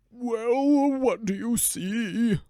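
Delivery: curious dog. Acted. Dog voice in fairy tale.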